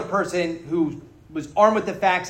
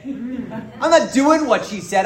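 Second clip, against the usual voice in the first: laughing; 6 semitones higher, 5 dB louder, much slower than usual. Real, not acted. Laughing aside about meetings.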